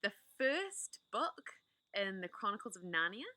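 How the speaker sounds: gentle, inviting host voice settling listeners in; cosy storytime welcome. Acted. Storyteller inviting listeners to get comfortable, gently. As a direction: welcome them in like a bedtime reader. Warm host intro to a read-aloud.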